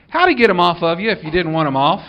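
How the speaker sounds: retelling the sheriff's teasing with a laugh. Retold or imitated. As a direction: chuckle through the sheriff's question. Sheriff's joking question retold.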